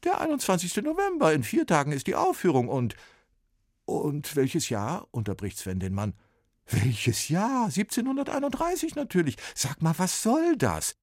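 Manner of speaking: high, fast impatient voice; brisk copyist. A narrator's reading. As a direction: rattle it off, annoyed.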